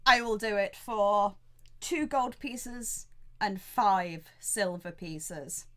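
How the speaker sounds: slow, measured offer with pauses; lightly voiced landlord weighing each coin; bargaining innkeeper. Innkeeper states his final price.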